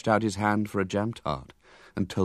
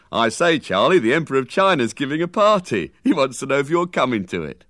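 louder, higher coaxing keeper; 5 semitones higher, 6 dB louder than usual. Acted. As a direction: humour him like a keeper.

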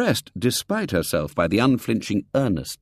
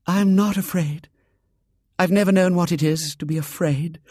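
put-on bold girl; 10 semitones higher than usual. A narrator's reading. Girl boasts bravery.

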